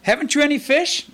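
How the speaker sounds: high, teasing rebuke; mocking. Jesus teasing the empty-handed fishermen, mocking. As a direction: needle them with a mocking question. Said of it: "a little bit of mocking tone to it".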